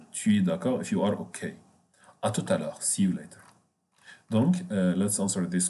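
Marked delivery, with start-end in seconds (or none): 2.8-3.4 whispered. Shown as a demonstration. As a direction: breathe it out without voice. Teacher translating a closing phrase.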